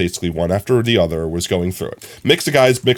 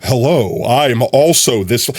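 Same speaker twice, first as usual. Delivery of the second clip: pseudo-sexy radio voice; slower than usual. Retold or imitated. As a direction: clear the throat, then a slow put-on radio hello. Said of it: "their radio voice, so to speak".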